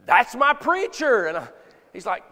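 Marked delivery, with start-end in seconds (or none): 0.1-1.3 put-on boy's proud claim. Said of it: "he goes".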